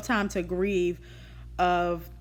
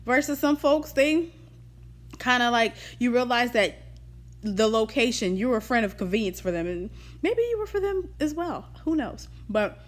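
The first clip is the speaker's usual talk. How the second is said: talking around a wad of gum; chewing gum; 3 semitones higher than usual. Real, not acted. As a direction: chew gum while speaking. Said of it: "Sorry, I'm chewing gum".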